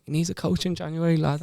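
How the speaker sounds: retelling a mate's chat in a mock Irish voice; imitating an Irish lad. Ash quoting the Dubai contact in a light Irish accent. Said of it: "He's Irish, is he?".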